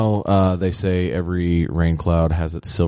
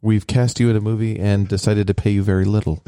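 lightly voiced Jewish casting agent; 2 semitones higher than usual. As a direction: attempt a Jewish New York agent voice. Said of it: "think of a Jewish one".

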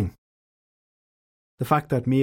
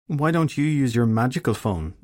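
snide; 3 semitones higher than usual. Acted. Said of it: "Shelley said snidely".

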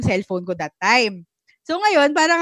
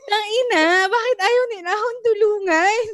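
exasperated disbelief; 9 semitones higher than usual. Retold or imitated. Exasperated retelling of drivers ignoring.

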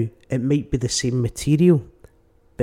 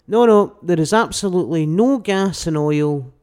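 loud government denial; 5 dB louder than usual. Retold or imitated. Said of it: "when we went to war in the Falklands".

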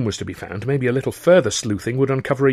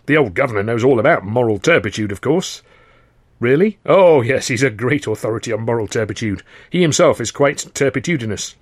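mock serious. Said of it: "affecting seriousness and not especially well".

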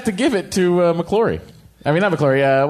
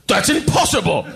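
emphatic, mock-outraged protest; indignant Prime Minister. Prime Minister dismissing Bond's suspicion, mock-indignant. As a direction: play an affronted British statesman. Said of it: "the Prime Minister of England goes".

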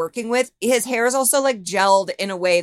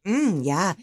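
mock sultry; much slower than usual. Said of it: "'Cause she's, like, really, like".

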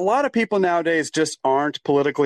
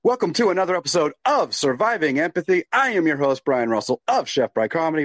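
lightly done radio host voice; 2 semitones higher than usual. Shown as a demonstration. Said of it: "I sometimes break into my radio voice".

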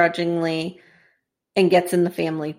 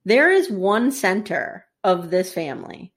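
deliberate speech in a lightly attempted British accent; hint of British, spoken with weight; 2 semitones lower than usual. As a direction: deliver a solemn lecture in a rough British accent. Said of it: "wish I could do a British accent".

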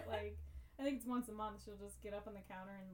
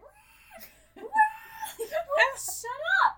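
high, loud, laughing whine as the dog; whiny dog voice; 17 dB louder, much slower than usual. Retold or imitated. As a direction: squeal it like a complaining puppy. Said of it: "He's like".

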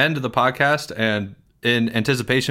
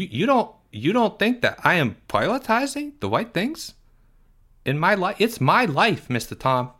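put-on whiny, higher kid voice with big complaints; Porge; 6 semitones higher than usual. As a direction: play Porge, indignant and put-upon. Porge argues with host.

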